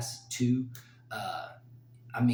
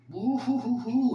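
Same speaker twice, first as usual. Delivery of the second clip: high loud woo-hoo; excited whooping; 12 semitones higher, 6 dB louder than usual. Real, not acted. Fight fan whooping with joy over the matchup. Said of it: "it's gonna get me emotional".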